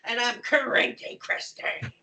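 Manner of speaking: breathy whisper of the name; whispered cranky. Shown as a demonstration. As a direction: whisper it, grumpy and slow. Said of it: "become the emotion".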